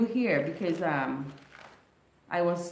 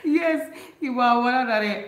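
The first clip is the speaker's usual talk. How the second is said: Vincentian dialect; 4 semitones higher, 6 dB louder than usual. Retold or imitated. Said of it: "speaking to him in dialect".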